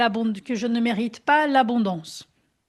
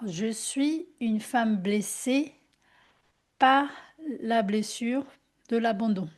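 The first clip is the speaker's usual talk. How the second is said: slow affirmation. Shown as a demonstration.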